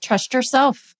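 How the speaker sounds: YOURSELF said high and with conviction; emphatic. Real, not acted. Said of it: "I said it so emphatically".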